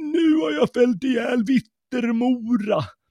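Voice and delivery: breathless, panting, very high-pitched outcry. Narrator reads the father's comrade rushing in from the forest, panting exclamation. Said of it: "utbrast han flämtande".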